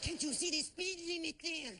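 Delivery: impression of a cop scolding a speeder, slow and loud. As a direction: lean on it slowly like a cop.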